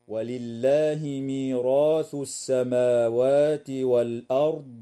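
slow chant with heavy ra in ميراث; Quran recitation. Shown as a demonstration. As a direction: recite slowly, full ra sounds. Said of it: "الراء في كلمة ميراث مفتوحة". (تلاوة بطيئة بتفخيم الراء)

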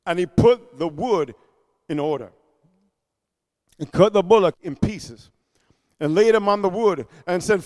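low, soft, paused phrases; subdued reading. Real, not acted. Preacher describing Elijah preparing the sacrifice, subdued. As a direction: set out each step quietly.

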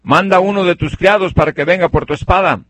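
called out high and loud across a distance; high, loud calling voice. Retold or imitated. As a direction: shout it up to the king far away. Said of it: "le grita".

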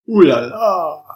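a lightly whistled wow at the sum; impressed ooh la la. Acted. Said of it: "Arnaud whistled".

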